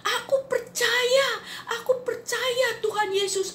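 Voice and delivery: dying man cries out his belief through tears; tearful cry of faith. Retold or imitated. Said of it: "dia berteriak".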